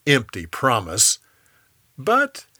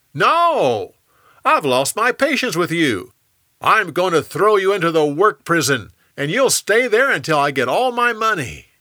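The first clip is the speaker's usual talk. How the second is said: louder, higher angry refusal; raised voice throwing a debtor into prison; harsh refusal; 4 semitones higher, 5 dB louder than usual. Acted. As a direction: shut him down hard. Man refuses friend's plea.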